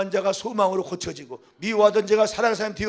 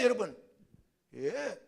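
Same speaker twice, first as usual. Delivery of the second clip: usual speaking voice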